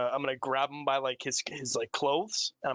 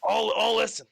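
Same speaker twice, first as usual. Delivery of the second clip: put-on higher and louder in an English RP accent; 8 semitones higher, 6 dB louder than usual. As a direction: say it in a British RP accent. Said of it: "I have to get into my R P voice".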